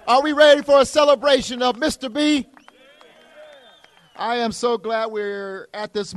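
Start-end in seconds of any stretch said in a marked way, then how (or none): 0.1-2.5 loud hype-man call to the crowd; rally speech. Real, not acted. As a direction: pump up the crowd, shouting. Mayor hyping the crowd.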